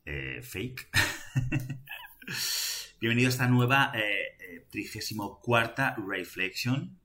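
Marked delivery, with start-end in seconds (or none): 3.0-7.0 hearty welcome. Acted. Welcoming viewers to episode.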